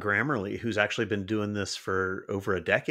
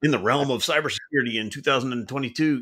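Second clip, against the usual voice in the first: movie trailer voice; 2 semitones higher, 4 dB louder than usual. Retold or imitated. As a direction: read it like an epic trailer. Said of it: "your voice got very baritone before".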